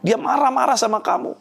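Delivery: voice of God. Retold or imitated. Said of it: "Sampai Tuhan bicara ayat ini". (sedikit suara Tuhan yang menegur lembut)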